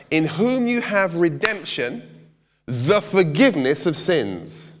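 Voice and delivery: slow, weighty reading of the verse; solemn scripture recitation. Shown as a demonstration. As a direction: read it out slowly, letting each word land. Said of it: "it's in the scripture".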